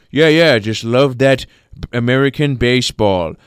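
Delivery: lightly voiced peasant farmer; a hint of a slurring country visitor; farmer friend. Old farmer friend explaining his trip to America, lightly put-on peasant voice. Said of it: "he was, like, a farmer".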